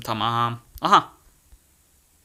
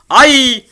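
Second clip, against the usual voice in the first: yelp; 9 semitones higher, 10 dB louder than usual. Real, not acted. Hit in game.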